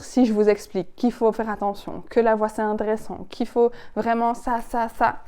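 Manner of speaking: lively, varied pitch with rising lines; lively intonation. Shown as a demonstration. Coach showing students an engaging varied tone. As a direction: make the voice dance to hold attention. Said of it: "Vous voyez la différence".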